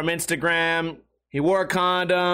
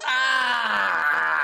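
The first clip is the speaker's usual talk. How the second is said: zombie moan; 3 semitones higher than usual. Retold or imitated. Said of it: "a moan and then becomes, like, black people laughing".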